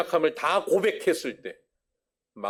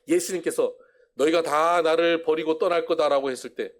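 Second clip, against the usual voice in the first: ordinary talk, nothing marked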